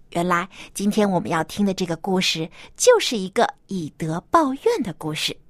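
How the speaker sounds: put-on bright host voice for kids; reading to a toddler. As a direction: talk gently to little children. Host talks to children.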